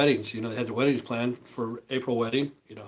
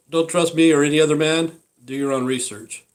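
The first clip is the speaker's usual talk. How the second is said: emphatic warning; 3 semitones higher, 6 dB louder than usual. Real, not acted.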